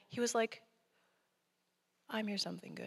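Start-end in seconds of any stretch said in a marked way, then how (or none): 2.1-2.9 soft, much quieter reassurance; gentle, quiet God. Retold or imitated. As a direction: say it softly, not yelled. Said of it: "He didn't actually yell it at me".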